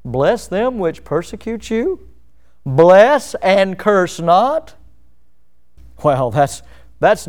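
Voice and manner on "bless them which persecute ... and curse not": slow incredulous rising read; scoffing at the verse, drawn out; mock disbelief. Preacher mimics a shocked listener, slow and disbelieving.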